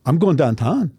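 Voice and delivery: "downtown" rises at the end like a question; question lift. Shown as a demonstration. Coach showing the Pittsburgh upward lift at sentence end. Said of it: "Has, like, a question pa- to it".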